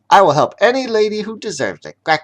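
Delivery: high, fast proud duck declaration. Acted. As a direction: announce the new motto grandly. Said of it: "spoke his new policy proudly".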